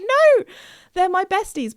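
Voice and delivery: high, wailed objection; mock-distraught protest. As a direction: plead dramatically for your cow friends. Retold protest at dad shouting.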